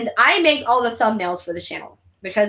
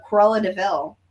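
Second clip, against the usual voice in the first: ordinary talk, nothing marked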